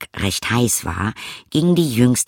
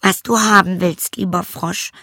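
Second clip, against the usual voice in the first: high princess voice; storybook princess, pitched well above the narration; princess character; 9 semitones higher than usual. A narrator's reading. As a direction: plead sweetly in a high princess voice. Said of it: "sagte sie".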